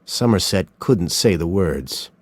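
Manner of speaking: plain reading voice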